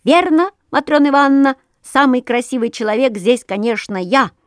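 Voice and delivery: fast, high squeaky Petrushka; squeaky puppet voice. Acted. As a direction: squeak it out boastfully. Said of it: "и пропищал".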